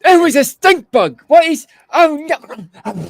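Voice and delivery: high, loud panicked guard; guard panicking. Acted. Game master voicing a guard who smells the stink bug, panicked. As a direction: shriek like a guard hit by a stink. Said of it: "It's like".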